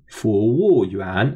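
服务员 drawn out slowly: rising, falling, rising; second-fourth-second tones. Shown as a demonstration. Teacher shows learners the word for waiter, 服务员 in slow rising-falling-rising tones. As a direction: model 服务员 slowly, each tone distinct. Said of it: "a second tone, fourth tone, second tone".

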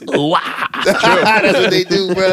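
very slow laughing vagrant drawl; cracked rambling vagrant. Shown as a demonstration. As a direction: stretch it out like a wasted drifter. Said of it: "Scooby-Doo monster sound".

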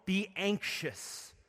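earnest plea. Acted. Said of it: "And so he says".

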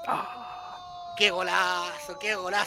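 excited. Real, not acted. Watching a great goal clip.

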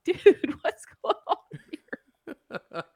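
high-pitched, drawn-out stoner confusion; slow, dazed mock stoner; imitated stoner. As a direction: play the baffled pothead, breaking into laughter. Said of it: "the one that was high the whole time".

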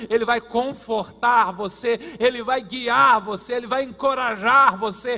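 loud preacher building to a peak; preaching, building. Real, not acted. Preacher promising God will guide you, building forceful preaching.

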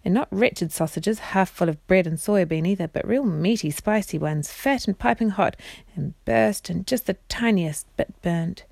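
expressive bedtime story narration; measured storyteller voice; reading to children. A narrator's reading. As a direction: read it aloud as a storybook for children. Reads story aloud to children.

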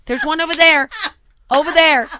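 imitated helper calling out; calling out directions. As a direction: call out each find from a little way off. Heidi calling out from outside.

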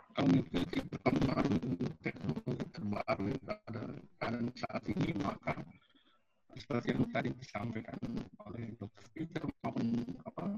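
choppy, breaking-up phone line; call dropping out. Real, not acted. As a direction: voice cutting in and out over a bad connection. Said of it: "ini kok suaranya tidak jelas ya". (suara putus-putus)

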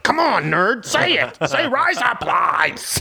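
high, taunting schoolyard bully. Acted. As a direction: goad them like a playground bully. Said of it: "having flashbacks from a schoolyard".

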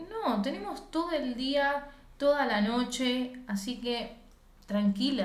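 soft, relaxed soothing reply; calm her down gently, no rush; calm reassurance. Retold or imitated. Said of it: "Greta está lo más pancha". (tono suave y tranquilizador, con calma)

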